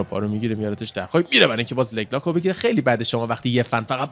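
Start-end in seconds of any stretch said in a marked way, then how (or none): none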